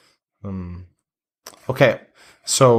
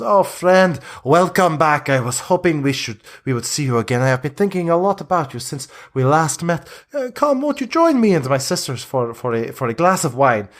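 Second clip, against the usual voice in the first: a hint of a welcoming Vistani woman, higher; lightly voiced gracious hostess, pitched up; lightly voiced Vistani leader; 4 semitones higher than usual. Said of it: "she goes".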